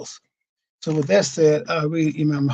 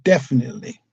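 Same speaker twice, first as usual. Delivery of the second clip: "Definitely" stated firmly with a final fall; firm emphasis; 2 semitones lower, faster than usual. Shown as a demonstration. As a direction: land "Definitely" as beyond doubt. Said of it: "is very firm".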